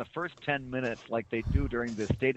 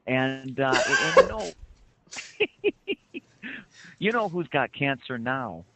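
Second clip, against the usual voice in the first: Midwestern gossip. Retold or imitated. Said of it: "all these stories up there start with".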